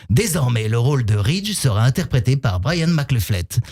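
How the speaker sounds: lightly imitated calm TV announcer; calm voice-over. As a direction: say it calmly like a series voice-over. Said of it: "dit comme ça, tranquillement".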